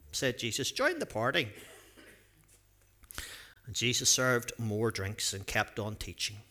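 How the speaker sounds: lively storybook reading with acted voices; reading a story to children. A narrator's reading. Pastor reading a Bible story to children, lively storytelling. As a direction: read it out like a picture book for the kids.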